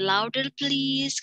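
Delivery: slow, drawn-out request. Shown as a demonstration. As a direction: stretch it so they speak up. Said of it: "Kalau siswanya suaranya kecil banget".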